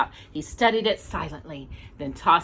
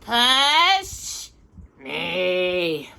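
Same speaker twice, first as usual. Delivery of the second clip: yelling. Acted. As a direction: call out to his brother. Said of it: "Danny yelled to his brother".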